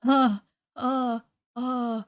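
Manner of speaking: panicked gasps, then dazed repeating; shaken, breathless disbelief; scared horror game streamer. Real, not acted. Shocked by character's execution.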